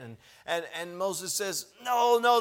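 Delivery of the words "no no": louder, higher firm no; firm rebuke. Retold or imitated. Moses rebuking the ten fearful spies, firmly. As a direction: cut them off firmly.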